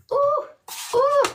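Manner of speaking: high, bright squeal of delight; high ooh, teasing and pleased. Real, not acted. Reacting to a viewer's language.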